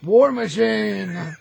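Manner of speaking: loud, slow, drawn-out high cry; excited shout. Real, not acted. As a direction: belt out War Machine with glee. Excited shout of hero name.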